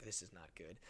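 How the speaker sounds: very soft, low whisper; hushed dread. Retold or imitated. Friends spotting trouble as they pull up, hushed dread.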